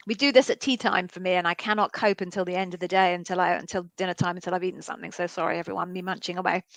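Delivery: talking while chewing food; mouth full. Real, not acted. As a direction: speak through a mouthful of food. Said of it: "I've just put something in my mouth".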